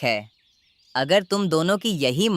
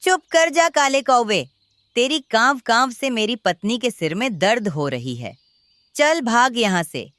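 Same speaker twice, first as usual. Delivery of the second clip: angry; 5 semitones higher than usual. Acted. Farmer chases crow away.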